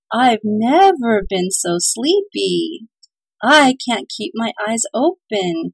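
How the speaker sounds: put-on slow drowsy child voice; barely awake, drag the words; sleepy child. Children complaining they can't stay awake, slow and drowsy.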